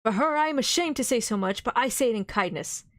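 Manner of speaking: pleading, compassionate appeal; full of pity. Acted. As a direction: beseech him with tender pity. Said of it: "with an accent full of pity".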